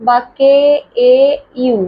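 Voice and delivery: কেএইউ stretched very slowly into its parts; drawn-out sounding. Shown as a demonstration. Teacher stretching the sound for children, very slow. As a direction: pull কেএইউ apart slowly. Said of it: "অনুস্বারের উচ্চারণটা".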